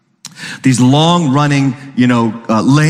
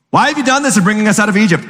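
mock complaint; 5 semitones higher, much faster than usual. Israelites complaining.

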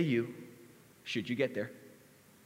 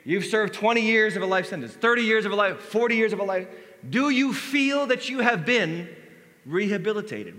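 parole board voice; 4 semitones higher, 5 dB louder than usual. Retold or imitated. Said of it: "they say".

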